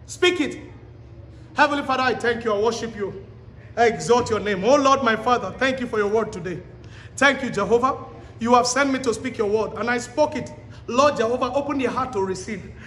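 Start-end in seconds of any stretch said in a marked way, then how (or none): 1.5-12.7 closing prayer. Acted. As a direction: pray it over the congregation.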